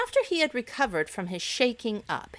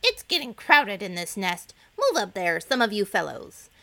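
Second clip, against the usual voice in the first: louder, cross complaint from a cramped egg; angry; 5 dB louder than usual. Acted. Oldest egg shouting at his nest-mates, angry and louder. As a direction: grumble loudly at the others to move. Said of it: "called out angrily".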